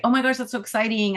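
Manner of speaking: high, quick burst of delight; excited. Retold or imitated. A friend cheering on her plans, high and quick with delight. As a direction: gush with happy excitement. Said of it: "I would rather someone say".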